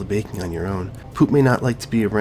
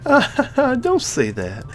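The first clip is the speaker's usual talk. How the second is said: much higher, very slow put-on voice; gentle character voice; 13 semitones higher, much slower than usual. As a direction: soothe him, stretching it out. Character consoles after teasing.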